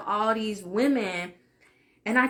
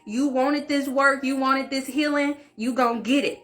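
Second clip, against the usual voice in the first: louder, higher, bossy scolding; scolding spirit; 4 semitones higher, 4 dB louder than usual. Retold or imitated. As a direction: command her like a fed-up big sister. Her spirit scolding her to continue.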